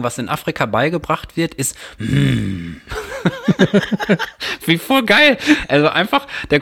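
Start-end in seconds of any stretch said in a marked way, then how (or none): 2.0-2.7 calming hum. Retold or imitated. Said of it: "das offizielle Signal für Gorillas beschwichtigen".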